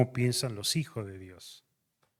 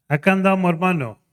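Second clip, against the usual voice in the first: higher, louder easygoing reply; a hint of a relaxed visiting pastor; lightly voiced pastor; 8 semitones higher, 11 dB louder than usual. Pastor answers in dialogue.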